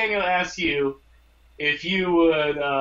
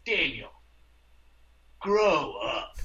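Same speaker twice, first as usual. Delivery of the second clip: mocking; 4 semitones lower, slower than usual. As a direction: throw the line back at him. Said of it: "I'm mocking you".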